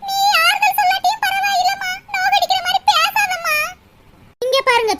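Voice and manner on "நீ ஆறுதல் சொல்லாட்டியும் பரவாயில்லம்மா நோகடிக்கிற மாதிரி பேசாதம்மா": high, whimpering plea on the edge of tears; tearful plea. Acted. Mother tearfully asking daughter-in-law for kindness. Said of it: "மூசு மூசு மூசுன்னு அழுது".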